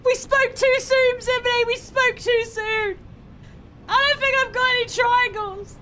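high, strained cries of despair; panicked wail. Real, not acted. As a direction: wail it as the game slips away. Losing the game, panicking.

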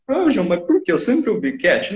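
high, whiny student voice asking why; puzzled student. Retold or imitated. Teacher mimicking a puzzled student, high-pitched.

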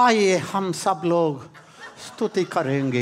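fast sing-song call to praise; mock Hindi worship leader. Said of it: "The way you say, you know how people will listen?".

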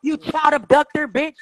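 slow, emphatic name-calling; accusing, dragged-out jeer; drawn-out taunt. Real, not acted. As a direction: stretch out the insult to needle them.

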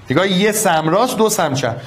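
ordinary talk, nothing marked

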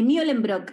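Mullenbrook with a "myo" first syllable; German-style surname. Shown as a demonstration. Guest answers how her surname is pronounced, German-style "Myo". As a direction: say Mullenbrook as "MYO-lem-brok". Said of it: "debe ser como un Mew".

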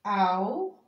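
"Alfaiate" split with long pauses between syllables. Shown as a demonstration. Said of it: "separa as sílabas". ("Alfaiate" ditado em sílabas bem separadas)

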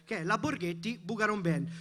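normal talking voice

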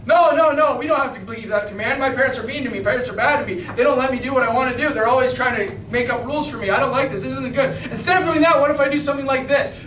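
rapid-fire mock protest; quick, lightly acted complaining; children's excuses. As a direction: rattle off excuses like an objecting child. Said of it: "Just like a bunch of devils".

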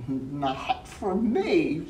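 bunny voice. Acted. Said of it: "said the bunny".

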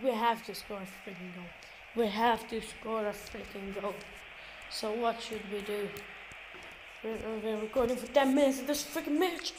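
very soft, low commentary; hushed. Real, not acted. Gamer playing on while mom wants to sleep, hushed. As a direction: keep your voice right down for a sleeper.

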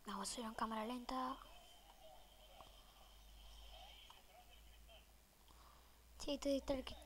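unvoiced whisper while sneaking. Real, not acted. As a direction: whisper as if hiding. Schleicht sich im Spiel an.

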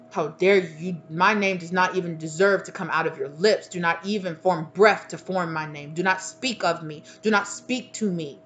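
firm, indignant forbidding; mad ancestors. Acted. Ancestors forbidding someone to name them, sternly indignant. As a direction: lay down each command emphatically. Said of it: "they are mad".

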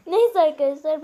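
real laughter breaking through; giggling helplessly; can't stop laughing. Real, not acted. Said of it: "ben gülmekten kendimi tutamıyorum".

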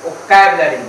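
"ओ कैब लरी" said crisply at normal speed, the correct way; correct pronunciation. Shown as a demonstration. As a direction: say "ओ कैब लरी" cleanly as three quick parts. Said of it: "इसी को बोलना ओ कैब लरी". ("ओ कैब लरी" साफ़ और सामान्य गति से, सही तरीके से)

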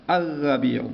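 الربيع with the l left out and r doubled; silent lam. Shown as a demonstration. Teacher repeating the sun-letter word, lam silent. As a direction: lean on the doubled r in الربيع, skipping the l. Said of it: "هذا اللام لا نقرأه".

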